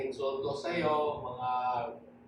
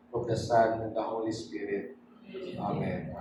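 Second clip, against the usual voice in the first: subdued, reverent prayer; solemn prayer; 3 semitones lower than usual. Real, not acted. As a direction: settle gently towards the amen. (taimtim at mahinahong panalangin)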